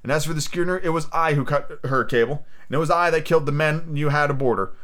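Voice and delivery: a touch of defiant excitement; excited defiance. Acted. Captive Jim confesses all to the pirates, mildly excited defiance. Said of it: "I was quite excited".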